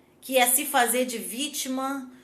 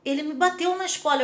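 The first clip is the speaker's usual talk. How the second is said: put-on child, tears stopped; 3 semitones higher, faster than usual. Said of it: "parou de chorar na hora e falou".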